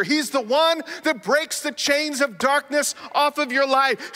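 rousing list of Jesus' names; building sermon litany. Acted. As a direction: build each title like a preacher. Preaching litany of titles.

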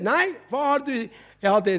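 ordinary talk, nothing marked

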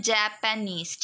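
"जापानीज" broken into three syllables. Shown as a demonstration. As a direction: separate each syllable of "जापानीज". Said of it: "तीन syllables होते हैं". ("जापानीज" के तीनों syllables अलग-अलग)

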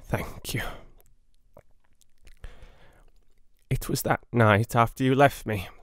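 hurry, he has minutes left; urgent dying patient. Acted. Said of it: "hurriedly and with more energy".

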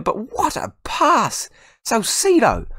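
very high, drawn-out admiration; awestruck rave. Real, not acted. Gamer raving about a brilliant pass, awestruck rave. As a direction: wail it out in sheer awe.

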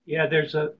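hoarse from a cold; losing voice. Real, not acted. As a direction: speak with a worn-out, hoarse voice. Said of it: "sorry, I'm losing my voice".

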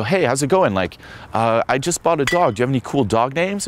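mock a guy filling silence; hammed-up polite chatter; boring guy. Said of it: "Guys go up to girls".

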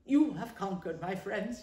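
sad. Acted. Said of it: "he said sadly".

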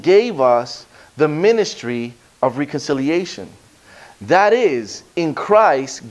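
slow, deliberate reading of the passage; measured pulpit scripture reading. Acted. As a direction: read the verses slowly with weight. Reads the scripture passage aloud.

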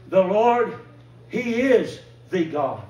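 proclaimed loud, slow and drawn out; crying out. Retold or imitated. Preacher echoing the crowd's cry, loud and slow. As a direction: call it out like a crowd of believers. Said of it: "they cried out".

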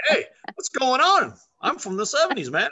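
a groovy owl greeting you; laid-back owl. Pretend. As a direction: owl talking like a seventies hippie. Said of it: "And an owl goes".

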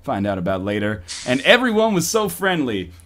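lightly seductive narration; sultry story reading. Acted. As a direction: read it like an erotic novel. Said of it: "my best possible Fifty Shades of Grey voice".

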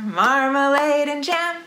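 usual speaking voice

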